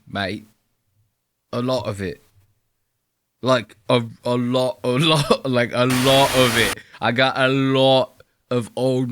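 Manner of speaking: lightly voiced trainspotter, each line ending in mate; deadpan parody of the enthusiast; parodying the video maker, lightly voiced mock bloke; mock trainspotter bit. Mocking the trainspotter at length.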